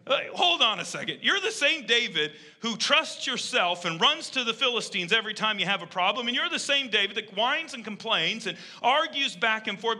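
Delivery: lightly acted scolding, listing the faults; mock reproach. God challenging David, acted quote.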